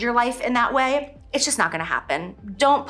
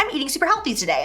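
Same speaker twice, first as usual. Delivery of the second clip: chirpy; 6 semitones higher, much faster than usual. Retold or imitated. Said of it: "I'd be like".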